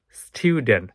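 "স্টুডেন্ট" as STYOO-dent with a y-glide; English pronunciation. Shown as a demonstration. Teacher modelling the word, "স্টুডেন্ট" said styu-dent. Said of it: "এটার উচ্চারণ হচ্ছে".

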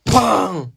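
spoken "bang" noise; imitated crash. Storyteller imitating the giant at the door, sudden bang.

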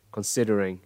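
Considering falling to a lax final "ring"; falling intonation. Shown as a demonstration. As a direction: step down through Considering with a short lax i. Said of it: "Âm y đấy và cái hướng đi xuống". (Considering, đi xuống, âm i ngắn)

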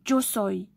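"yo soy" with y said as dj; teacher's model "yo soy", opening on dj; demonstrating pronunciation. Shown as a demonstration. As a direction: say "yo soy" as "djo soy". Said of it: "mais ça se prononce".

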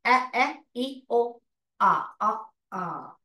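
ए ई ओ आ clipped as short sounds; short vowel sounds. Shown as a demonstration. Teacher drilling short vowel sounds. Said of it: "उसको short sound करके".

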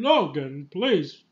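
playful imitation of an exasperated, pleading old professor; Patrick Stewart cursing. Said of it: "I love how Patrick Stewart curses".

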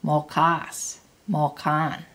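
"mokas" stressed on KAS, "mokan" on KAN; light "mo", stronger endings "kas" and "kan"; stress on second syllables. Shown as a demonstration. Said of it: "And the same with mo".

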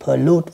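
pollute said lightly, stressing LUTE; understated model of pollute, second syllable stressed. Shown as a demonstration. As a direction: repeat pollute with weight on the last syllable. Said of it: "còn lại là âm thứ hai hết".

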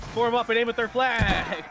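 loud battle command; commanding shout. Acted. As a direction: bark the order across the field. Commander calling orders in battle.

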